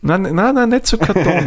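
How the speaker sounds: high, insistent no no no; emphatic denial. Real, not acted. Rejects partner's cardboard suggestion.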